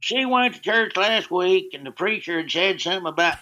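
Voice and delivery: high Southern redneck voice, Southern twang. Retold or imitated. Answering Jeff at the ballgame, high Southern redneck voice. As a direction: crank up a Southern good ol' boy, pitched high. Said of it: "So I go".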